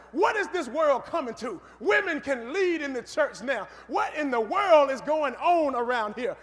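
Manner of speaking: mildly indignant guard storming off; retold angry complaint with stretched words; angry grumbling. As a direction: voice an exasperated outburst, drawn out. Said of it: "he gets angry".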